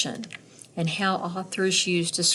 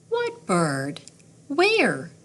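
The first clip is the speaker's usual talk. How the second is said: curious; 4 semitones higher, slower than usual. Acted. Looking for the bird.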